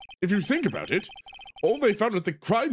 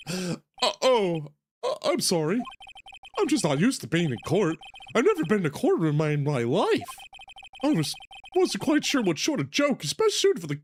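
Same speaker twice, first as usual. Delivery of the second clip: clown voice; 2 semitones higher than usual. Acted. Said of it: "I have to get my clown voice ready".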